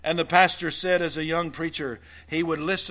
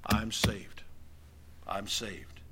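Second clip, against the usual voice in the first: whispered; 7 semitones lower, 8 dB quieter, slower than usual. Acted. Whispered assurance.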